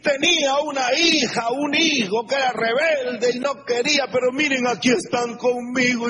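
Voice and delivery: high, excited retelling of a miracle; a proud mother showing off her returned son; testifying mother. Retold or imitated. Preacher imitating a mother's testimony, high and excited.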